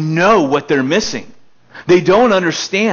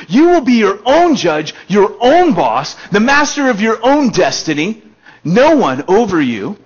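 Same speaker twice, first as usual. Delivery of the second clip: higher and louder, selling it; tempting build-up; 5 semitones higher, 4 dB louder than usual. Acted. Serpent tempting man with godhood, excited sell. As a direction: reel them in with big promises.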